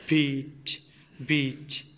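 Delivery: "বিট" with a voiced, pressed b; forceful English b. Shown as a demonstration. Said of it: "use করি একটু জোর করে".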